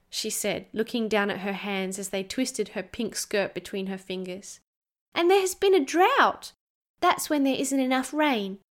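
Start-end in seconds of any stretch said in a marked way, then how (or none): 5.1-8.6 put-on high, earnest child explaining; a small girl making sure he understands; little girl voice.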